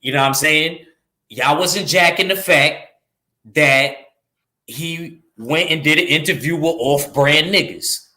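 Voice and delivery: put-on slow young New York street accent; slow New York accent, talking down the fans. Shown as a demonstration. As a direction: lay it on like a young New Yorker, slowly. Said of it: "Let me just say it like a New York nigga would have said it".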